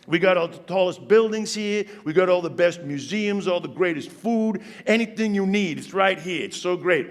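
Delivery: lightly put-on New York accent. Typical New Yorker bragging about the city, New York accent. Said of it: "that typical New York accent".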